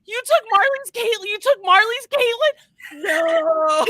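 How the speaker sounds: high, loud, drawn-out comic howl; horrified mock wail. Host imitating Ursula learning she poached Caitlin, horrified mock wail. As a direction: wail in exaggerated dismay, laughter breaking in.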